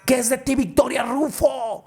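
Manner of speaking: high, loud, wailing cry; crying shout. Acted. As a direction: wail the names, heartbroken. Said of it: "Y empieza a llorar". (lamento a gritos, llorando)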